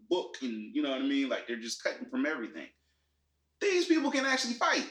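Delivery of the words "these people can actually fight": emphatic. Real, not acted. Exasperated rant about editing.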